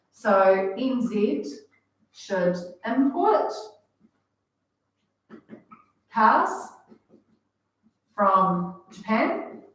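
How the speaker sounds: slow teacher emphasis, CARS hit hard; slow emphatic point. Real, not acted. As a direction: spell out the key idea slowly for the class. Teacher stressing key conclusion.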